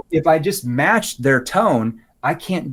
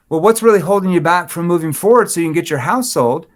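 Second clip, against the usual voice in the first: louder, pushy demand; challenging tone; 5 semitones higher, 5 dB louder than usual. Shown as a demonstration. Agent pressing a stalled seller, challenging and pushy. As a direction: push them like you're losing patience. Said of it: "they're gonna get defensive".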